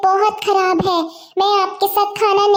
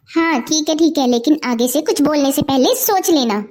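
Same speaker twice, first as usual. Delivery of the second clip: put-on lower, firm older sister scolding; stern elder sister; 5 semitones lower than usual. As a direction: put her younger sister in her place. Elder sister warns Seema. (बड़ी बहन की सख़्त डाँट)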